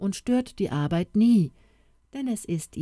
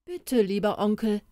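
put-on polite boy; 4 semitones higher than usual. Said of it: "Wenn du sagst".

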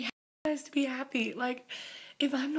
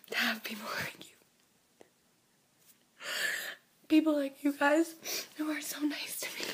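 choked-up near-whisper, holding back tears; half-whispered through emotion after a sweet letter; emotional whisper. Real, not acted. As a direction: voice barely above a whisper, moved. Tearful whisper after a fan letter.

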